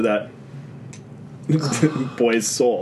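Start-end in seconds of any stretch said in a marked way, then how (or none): 2.2-2.8 "soul" said with a crisp s; enunciated. Shown as a demonstration. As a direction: say "boy's soul" slowly and clearly. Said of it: "Thank you for enunciating".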